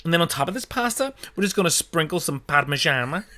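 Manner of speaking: hammed-up Italian pronunciation of Parmigiana; mock Italian accent. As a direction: show off the Italian words. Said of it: "when they'll go".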